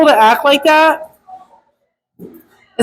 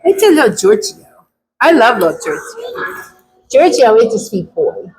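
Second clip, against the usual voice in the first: doting on the dog. Real, not acted. Talking to the dog.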